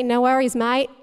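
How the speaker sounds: lightly attempted Australian accent; amateur Australian accent. Shown as a demonstration. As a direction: say it like an easygoing Australian. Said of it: "in your best Australian accent say".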